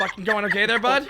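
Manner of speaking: thick Canadian, mock confrontation; angry Canadian accent. Shown as a demonstration. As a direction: play a ticked-off Canadian. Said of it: "my Canadian comes out real hard".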